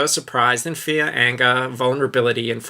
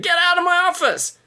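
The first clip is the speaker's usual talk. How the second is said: high furious shout; angry shout. Acted. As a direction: yell at him, outraged. Skinner yelling.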